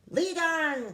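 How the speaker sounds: the rat crying out, keen for goodies; eager cry. Acted. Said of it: "cried the rat".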